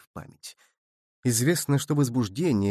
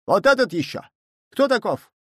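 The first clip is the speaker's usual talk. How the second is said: put-on higher, accusing shout at the boy; 8 semitones higher, 4 dB louder than usual. A narrator's reading. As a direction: point and yell at the lad. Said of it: "Кузьмин кричал". (кричит, выше и громче)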